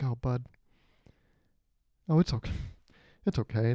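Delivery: soft, hushed reassurance; softly soothing; gentle consoling. Retold or imitated. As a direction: gently console a let-down kid. Consoling a crying kid, retold.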